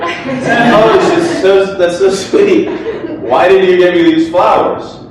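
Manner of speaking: put-on high, gushing girlfriend voice with a giggle; imitating girlfriend. Speaker redoes girlfriend getting flowers, high and gushing. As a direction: coo over the flowers, delighted. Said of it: "sorry, that's not how she really sounds".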